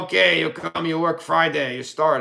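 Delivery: put-on light German-accented English. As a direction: imitate an old German boss hiring someone. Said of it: "with a fucking German accent".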